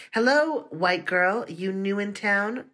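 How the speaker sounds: put-on mild teasing from a lunch table boy. A narrator's reading. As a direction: rib the new girl. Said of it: "Darnell teased".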